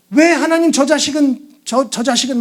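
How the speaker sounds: imitated jealous grievance; acted resentment. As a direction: complain to God about a rival, lightly acted. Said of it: "분노가 이제 넘어서 비교를 하게 되고".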